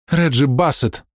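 name torn out of her; exclaiming. A narrator's reading. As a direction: finally blurt the name out. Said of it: "воскликнула она наконец".

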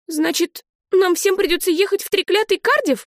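put-on high little-girl voice, indignant; a child outraged at the news. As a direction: Olive protesting to her uncle, high and indignant. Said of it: "возмутилась Олив".

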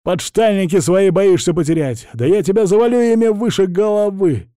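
high, loud mocking yell; furious shout. A narrator's reading. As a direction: scream the insult at him. Writer keeps shouting hysterically. (истеричный крик, громко и высоко)

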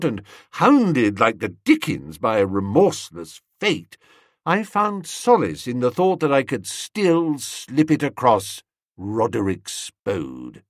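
usual speaking voice

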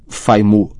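"Faimu" with a lisping F for S; bloodied-mouth speech. A narrator's reading. Ron explains through bleeding mouth, garbled "Faimu". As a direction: mangle it as "Faimu". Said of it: "sua boca estava ensanguentada".

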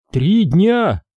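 a son who missed the funeral; shocked disbelief; stunned breath. A narrator's reading. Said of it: "удивлённо выдохнул Сашка".

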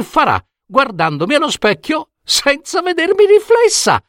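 coaxing, pleading woman with a giggle; wheedling woman. Acted. Woman wheedling the boy to lend her the cloak. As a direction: sweet-talk him into lending it.

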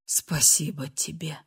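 еле слышный шёпот; прошепчи на последнем вздохе; шёпот умирающего. A narrator's reading. Умирающий шепчет. (умирающий Ренулф благодарит Фрею: шёпотом)

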